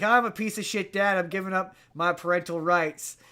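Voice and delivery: lightly voiced Southern dad giving up his rights; hint of a Southern accent. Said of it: "I don't know why I keep giving him a southern accent".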